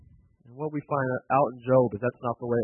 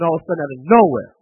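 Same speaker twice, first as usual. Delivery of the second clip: louder and faster, pushing out of nowhere; sudden emphasis; 7 dB louder, faster than usual. Acted. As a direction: hit out of nowhere hard and quick, like a blow. Building suspense on sudden loss.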